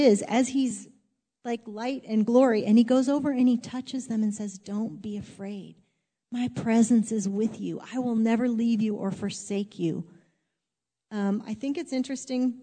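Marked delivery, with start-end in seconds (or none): 4.6-10.0 gentle comfort. Acted. Jesus comforting the frightened disciples.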